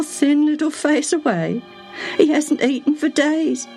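high, sorrowful servant woman near tears; voice breaking. A narrator's reading. Servant telling of the sick boy, voice breaking. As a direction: let the grief catch in her throat. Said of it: "Her voice broke down".

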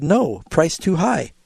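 a firm stand-alone "No", then "price too high"; pause after No. Retold or imitated. Husband objecting to the coat he refused, "No" cut off by a pause. Husband repeats his telegram, with comma.

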